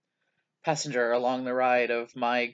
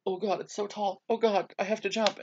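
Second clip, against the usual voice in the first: high, anxious playacted dread; mock panic; 8 semitones higher than usual. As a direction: act scared of the drop, voice pitched up. Acts own fear while gaming.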